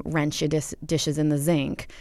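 "rinse" turned to "wrench", "sink" to "zinc"; New Orleanian catchphrase. Shown as a demonstration. Linguist quoting T-shirt slogans, local "wrench" and "zinc". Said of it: "catchphrases that are very New Orleanian".

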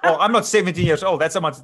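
laughing. Real, not acted. Winemaker laughing off the host's "so young", loud laughing. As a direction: laugh it off while correcting her.

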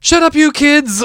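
high-pitched, slow mock scolding; freaking out. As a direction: imitate a woman losing it at noisy kids. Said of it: "She freaks out".

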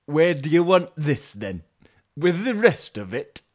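Yorkshire delivery driver. Acted. Driver asking where the parcel goes, Yorkshire accent. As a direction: put on a lively Yorkshire accent. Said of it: "it'll be another Yorkshire".

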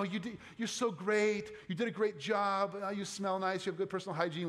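mock compliments. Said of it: "human encouragement".

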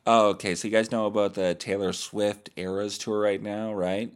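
loud, bright host read, pushed forward; pro podcast voice. Shown as a demonstration. Retaking the pop-star tour intro in a loud pro voice. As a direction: sell it like a pro show host. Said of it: "We have to make it sound pro".

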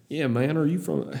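put-on accidental Southern accent; a touch of Southern twang. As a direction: slip lightly into a Southern accent. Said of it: "that's a Southern accent I just did".

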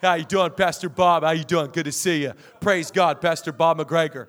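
low, jovial mimicked greetings; father-in-law impression. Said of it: "And he talks like this".

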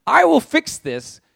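laughing through the promise; a nervous happy laugh while vowing to fix it; laughing as he repents. Acted. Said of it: "He says".

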